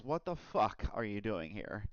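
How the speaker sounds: mock Cage menace, barely shifted from his own voice; Nick Cage impression. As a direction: lightly mimic Cage's snarl as Travolta. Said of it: "he talks just like Nick Cage".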